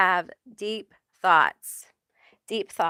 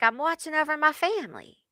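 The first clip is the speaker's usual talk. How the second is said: lightly voiced Joe Pesci, higher and quick; a hint of Joe Pesci, higher; 4 semitones higher than usual. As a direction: play a wistful tough-guy angel. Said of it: "like Joe Pesci".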